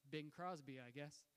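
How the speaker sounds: sheepish. Retold or imitated. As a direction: admit it sheepishly, fading at the end. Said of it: "he kinda sheepishly said".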